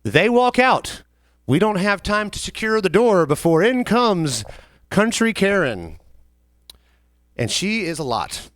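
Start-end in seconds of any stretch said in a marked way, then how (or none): 0.0-6.0 slow, drawn-out buildup to the entrance; slow storyteller suspense before the villain arrives; dramatic slow build. Acted. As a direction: drag out the reveal of Country Karen.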